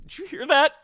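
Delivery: high, loud laughing through words; cracking up mid-line. Real, not acted. Laughing while quoting the bit.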